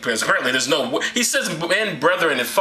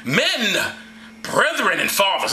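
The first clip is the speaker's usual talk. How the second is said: raised-pitch address to a crowd; mock orator; 4 semitones higher, slower than usual. Paul addressing the people from the stairs, oratorical. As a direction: call out to the people, hammed up. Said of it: "he starts speaking to the people".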